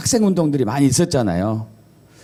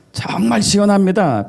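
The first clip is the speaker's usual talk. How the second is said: emphatic standard Korean, higher; 5 semitones higher than usual. Shown as a demonstration. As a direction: stretch the first word in standard Korean. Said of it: "표준어가 이러면".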